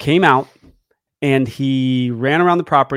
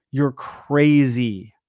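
dog voice, drawn out; much slower than usual. Retold or imitated. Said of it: "And he'd go".

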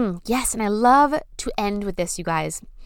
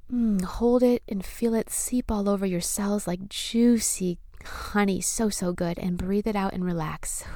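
sultry narrator. Acted. Leads breathing visualization.

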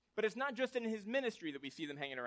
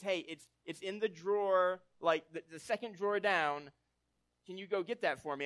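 wife asking; 5 dB louder than usual. Retold or imitated. Wife asks him, voiced in story.

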